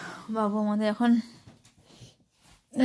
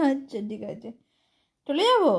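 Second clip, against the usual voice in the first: teasing; 3 semitones higher, 7 dB louder than usual. Real, not acted. Teasing pet, threatening to leave.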